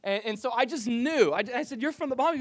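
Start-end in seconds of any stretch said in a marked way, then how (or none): 1.8-2.4 high, loud line rising on "Bahamas"; question lift at end. Retold or imitated. Pastor recalls recognising the waiter's origin, raised questioning "Bahamas". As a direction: ask it excitedly, pitched up through "Bahamas". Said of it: "Everything becomes a question on the back end".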